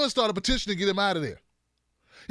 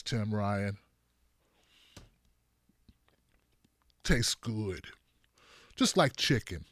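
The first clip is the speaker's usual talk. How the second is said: mock Tulsi taunting; 10 semitones lower, 4 dB quieter than usual. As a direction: taunt him while eating his lunch. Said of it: "she ate it in front of you like this".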